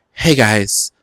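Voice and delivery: attempted London accent. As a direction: have a go at a London greeting accent. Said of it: "let me do my accent".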